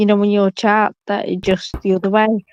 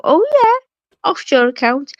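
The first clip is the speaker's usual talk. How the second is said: mock tax adviser; 5 semitones higher than usual. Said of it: "you could pay her to go".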